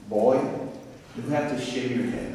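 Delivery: attempted Southern accent, softly voiced. Dean ordering a new student to shave, attempted Southern accent. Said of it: "I can't do that southern accent".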